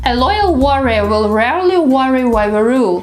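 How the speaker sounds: "loyal warrior" line with exaggerated L, R, W; tongue twister. Shown as a demonstration. Showing learners a favorite exercise, tongue twister. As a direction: glide through "rarely worry", rounding every sound. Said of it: "my favorite tongue twisters".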